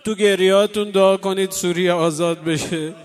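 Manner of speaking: full-voiced sermon plea; fervent preaching. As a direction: urge the crowd to pray through their tears. Preacher exhorts mourners to pray.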